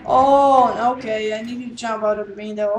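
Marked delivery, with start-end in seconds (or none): 0.0-1.4 startled gasp. Real, not acted. Startled while fleeing.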